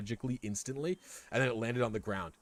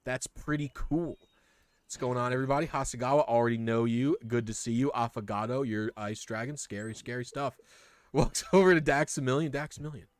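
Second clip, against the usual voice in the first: lightly voiced chirpy spider; 3 semitones higher than usual. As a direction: greet everyone like an eager newborn. Spider greets the party.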